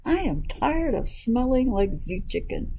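lightly voiced, fed-up duck; mildly indignant storybook duck; duck's cry. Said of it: "cried the duck".

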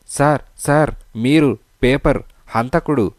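breathless, urgent gasps; panting. A narrator's reading. Clerk gasping to the inspector after running. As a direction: blurt it out winded from running. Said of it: "Sitapati రొప్పుతూ అన్నాడు".

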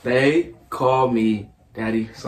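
slow, spaced-out words. Real, not acted. Player repeats his gamer name in whisper challenge, slowly. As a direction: say it slowly for someone trying to lip-read. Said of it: "Say it again, slower".

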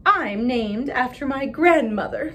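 put-on bragging girl at school; smug classmate. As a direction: show off proudly.

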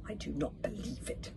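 soft, hushed disbelief; whisper. A narrator's reading. Fishlegs spotting the sign on the hut, whispered. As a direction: say it under your breath. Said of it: "whispered his Fishlegs".

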